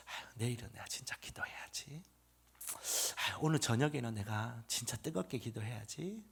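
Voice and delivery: low, sighing near-whisper to oneself; half-hearted resolve. Retold or imitated. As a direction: mumble a weary promise, very softly. Imitates his own weak resolve.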